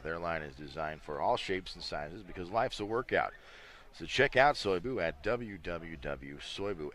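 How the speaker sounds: upbeat, punched-up promo read; brisk announcer read, brand names and web addresses hit firmly; sponsor ad read. Real, not acted. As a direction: sell it like a live sponsor spot. Reads sponsor messages during timeout.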